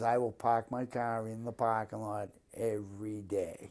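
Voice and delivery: dropped-R Boston accent, everyday talk; park the car the Boston way. Shown as a demonstration. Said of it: "You can truly tell when I talk that I'm from Boston".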